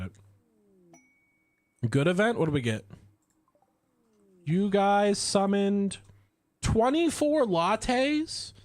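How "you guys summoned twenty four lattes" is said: slow, high, amazed question; delighted disbelief. Real, not acted. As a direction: stretch it out in happy shock. Delighted at coffee event.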